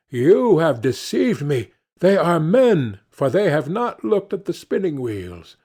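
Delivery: the king scolds his lion for lying; accusing king. Acted.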